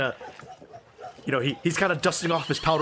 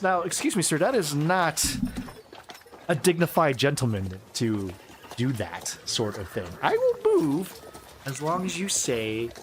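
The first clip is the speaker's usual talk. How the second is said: indignant gentleman. Acted. GM voices NPC indignant.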